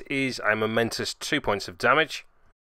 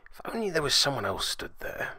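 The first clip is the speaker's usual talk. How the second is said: wry aside; 10 dB quieter, faster than usual. Acted. Wry lament after wasted blows.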